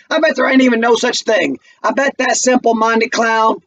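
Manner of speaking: put-on bitter young man jeering at a college boy; Walter taunting.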